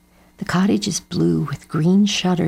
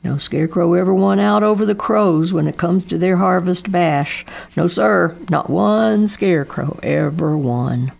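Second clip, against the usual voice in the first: a touch of gloomy resignation; resigned, heavy-hearted dad; sad father's voice; 4 dB louder than usual. Acted. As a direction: Daddo sadly tells his son. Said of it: "said Daddo".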